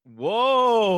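loud high whoa; surprised. Real, not acted. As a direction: blurt out a stunned whoa. Reacting to bold prediction.

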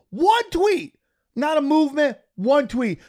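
ONE hit hard and high each time; emphatic indignation. Real, not acted. Podcaster ranting that one tweet got announcers suspended, stressing One. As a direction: hammer the word One in disbelief.

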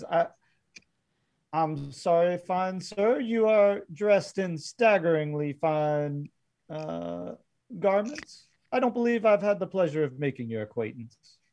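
lightly acted formal, flattering gentleman; a hint of a courtly Old West gentleman; lightly voiced courteous gunman. Game master voices Pete greeting Quentin.

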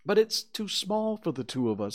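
put-on high-pitched disappointed boy; sadly. A narrator's reading. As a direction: voice mild disappointment as a child. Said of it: "said Christopher Robin sadly".

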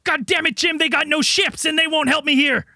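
lightly voiced frantic government official, exasperated; barking orders at Jim in a lightly played crisis voice; harried official. Frazzled agency chief pleading with Jim for help, lightly hammed. Improvised sketch, official character.

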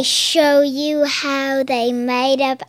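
playful put-on British accent; Accent Girl. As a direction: explain it in a pretend British accent. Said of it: "accent girl".

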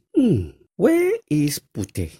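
put-on a stepmother peering about for the girl; hammed-up stepmother looking around; stepmother searching. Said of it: "the stepmother was looking for putih".

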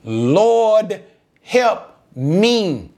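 a retold plea, drawn out word by word; pleading. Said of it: "just simply just begs him".

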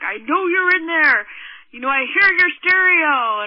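mock shouting through a door; retold yelling. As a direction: yell it like an angry stranger at the door. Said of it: "yelling at me and screaming through the window".

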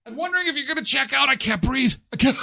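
high, fast words gasped through laughter; mock housekeeper dying of laughter; laughing breathless. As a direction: laugh so hard you can't breathe.

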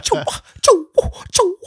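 high, loud puffed-up grunts; hammed-up fake tough guy. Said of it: "trying to be tough".

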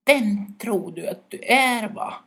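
high, loud, snapping yell; irritated shout. Acted. Birch brother angrily yells up at the owl. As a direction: hiss it up at the owl in a rage. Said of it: "Det fräste irriterat och ropade åt ugglan".

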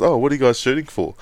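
bright quick mimicry of a curious stranger; imitating expat lady. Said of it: "she comes over and goes".

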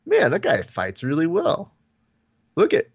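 high, excited imitation; excited mock fighter. Host imitates Rashad watching his tribute, high and excited. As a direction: gush like a fighter seeing his own highlight reel. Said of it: "it's him going".

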